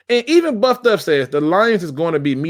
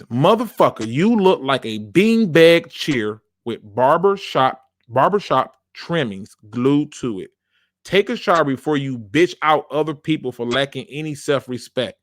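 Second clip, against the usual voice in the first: insulting read. Retold or imitated. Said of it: "the emphasis on which he spoke".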